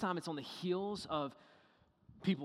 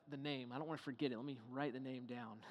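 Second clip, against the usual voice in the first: quick muttering Moses; 6 semitones lower, 10 dB quieter than usual. Retold or imitated. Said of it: "He's like".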